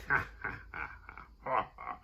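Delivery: spaced-out mock cackle; hammed-up, halting "ha ha" laughter; imitated villain laugh. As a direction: fake a wicked aunt's laugh in separate bursts. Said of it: "Ethel starts laughing".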